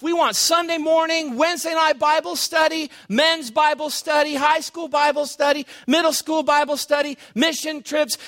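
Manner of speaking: high, insistent rattled-off list; fired up. Acted. Mimicking pastors who want every ministry, fired up.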